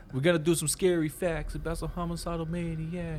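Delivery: nineties Brooklyn rapper voice; a hint of Brooklyn rap swagger; Brooklyn accent. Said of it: "Why do you sound like you're from Brooklyn".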